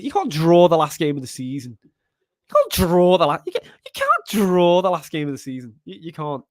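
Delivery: heavy Scouse, emphatic; leaning into Scouse. Real, not acted. Streamer protesting a last-game draw, leaning into Scouse. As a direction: lean hard on the Scouse accent. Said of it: "really lent into the Scousenness there".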